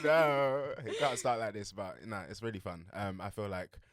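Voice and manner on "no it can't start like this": higher and louder, hammed-up wail of despair; mock despair. Waking up alone in the house, hammed-up louder despairing cry. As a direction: playfully wail that the lonely day can't start like this. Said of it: "I was like".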